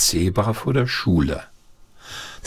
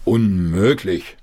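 scolding; slower than usual. Acted. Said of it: "schimpfte der Vater".

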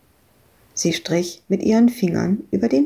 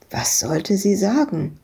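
usual speaking voice

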